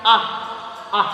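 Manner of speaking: "Ah" with a puff of air; breathy ah. Shown as a demonstration. Teacher demonstrating the airy ah. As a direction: let breath escape on "ah". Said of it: "ahnya pakai ha ini".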